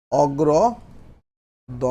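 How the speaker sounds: অগ্রদন্তমূল very slow, with gaps between its parts; slow dictation. Shown as a demonstration. Teacher dictating a term to the class, slow and broken up. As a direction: spell out অগ্রদন্তমূল part by part for writing.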